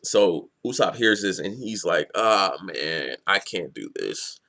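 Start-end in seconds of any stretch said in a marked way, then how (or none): 2.1-4.4 low, slowing retold groan of reluctance; mock dismay. Hero hears the noise over the intercom, dismayed. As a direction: sink down as if giving up.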